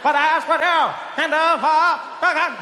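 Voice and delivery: high, stretched presidential oratory; hammed-up speech with drawn vowels; JFK. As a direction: declaim it in an exaggerated Kennedy-style accent. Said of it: "He had that thing where it's like".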